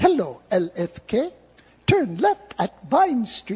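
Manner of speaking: put-on slow, sing-song English-accented announcer voice. Telling how the car navigation talks to you, English-accented GPS voice. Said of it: "I have mine on the English accent".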